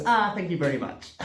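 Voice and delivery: mock thankful cop, a little laugh in it; a touch of laughing gratitude; grateful cop. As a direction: act suddenly all thanks, laughing. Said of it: "to this".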